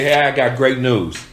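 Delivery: confident salesman bringing great news; upbeat good news. Shown as a demonstration. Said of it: "Or would you go back and say".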